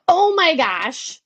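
slow, overawed exclamation; overwhelmed dismay. Acted. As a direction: stretch it out, daunted by a huge obstacle. Imagined person daunted by obstacle.

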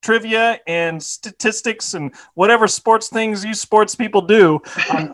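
hammed-up sponsor read; sports segment announcer. Host introducing Good Time Sports, mock announcer read. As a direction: improvise a playful sports promo.

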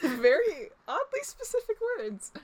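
amused remark broken up by laughing. Real, not acted. Friend teasing the reader's accented words, laughing.

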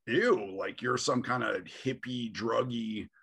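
mock-disgusted recoil, then easing off; aghast. Man retelling his date's reaction to his shrooms, aghast. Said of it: "she was, like, aghast".

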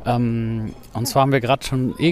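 talking while jogging; slightly out of breath from running. Real, not acted. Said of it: "wir sind grad am Laufen".

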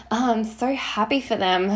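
hollow, insincere "Oh, I'm so happy for them." said lightly and dismissively; fake happiness. Shown as a demonstration. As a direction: say "Oh, I'm so happy for them." as if you don't mean it. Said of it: "it has to be genuine".

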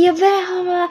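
high-pitched imitation of her objecting; mocking squawk of protest; mock indignant protest. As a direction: mimic a stubborn comeback, no real volume. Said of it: "bleef alsnog schreeuwen".

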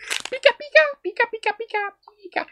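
squeaky high Pikachu cry. Pretend. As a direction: chirp it like Pikachu.

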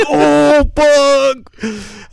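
high strained squeal through a laugh; high laughing yelp of pain. Retold or imitated. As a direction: squeak it out like it hurts. Painful exam, laughing wince.

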